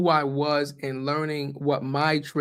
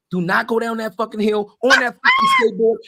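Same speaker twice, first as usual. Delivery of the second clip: mom yelling; 7 semitones higher, 5 dB louder than usual. Retold or imitated. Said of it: "my mom used to be like".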